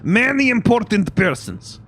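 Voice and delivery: high, forceful Russian sailor voice; Russian accent. Acted. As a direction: list them grandly in a Russian accent. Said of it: "Russian accent when I'm trying to do that voice".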